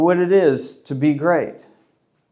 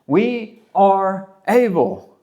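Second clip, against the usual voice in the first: mock childish insistence; 3 semitones higher, much slower than usual. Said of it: "just like a little kid".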